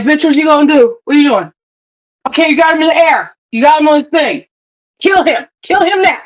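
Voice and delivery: retold impatient urging. Acts out urging on the character.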